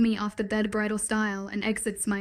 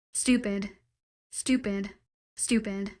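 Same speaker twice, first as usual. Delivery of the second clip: groaning. A narrator's reading. Girl at the TV show, groaning stupid with fading frustration. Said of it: "I groan out".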